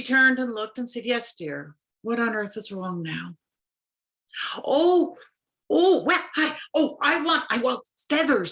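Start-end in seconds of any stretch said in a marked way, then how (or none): 1.0-3.3 lower, patient weary mother. Acted. Mother Nature answering her child, lower and weary. 4.6-8.5 high, eager pleading; eager fish. Acted. Fish begging Mother Nature for feathers, high and eager.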